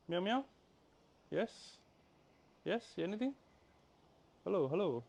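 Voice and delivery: high, soft pet talk; high coo for a kitten; cooing at a cat. Real, not acted. Calling cat softly.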